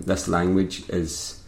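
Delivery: slow, measured read-out of a notice; retold official refusal. Relaying TripAdvisor's reply to a Catalan review, slow and official. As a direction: spell out the rule slowly, phrase by phrase.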